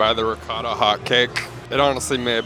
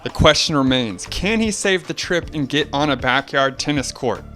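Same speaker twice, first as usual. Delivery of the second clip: sports commentary; 2 semitones higher than usual. Acted. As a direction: call the match like a TV commentator. Match recap as commentator.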